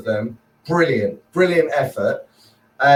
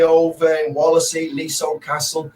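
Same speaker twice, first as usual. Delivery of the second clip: mock Scouse twang. Shown as a demonstration. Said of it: "I'll be talking like that when I get back".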